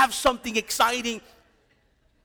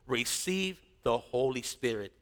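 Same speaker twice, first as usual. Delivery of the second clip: softer, low and gentle; soft breathed quote; 8 semitones lower, 7 dB quieter than usual. Acted. Preacher softly voicing Jesus giving the Spirit.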